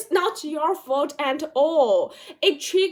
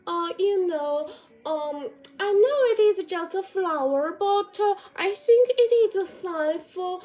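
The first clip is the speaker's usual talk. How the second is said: over-explaining; 6 semitones higher than usual. Retold or imitated. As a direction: justify yourself meekly. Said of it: "explain that".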